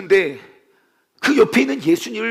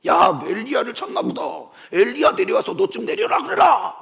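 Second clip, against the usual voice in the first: acted taunt from the crowd, lightly mocking; jeering. Bystanders taunt Jesus on the cross to call Elijah, lightly jeering. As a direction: toss it up as a casual jibe. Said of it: "사람들은 비난하고 조롱해요".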